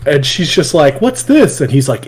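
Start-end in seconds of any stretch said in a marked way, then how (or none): 1.0-1.6 high-pitched imitated child's question; lightly piped-up curious kid; little girl. Little girl asking Goblin Slayer about his gear, high imitation. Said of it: "the Goblin Slayer little girl".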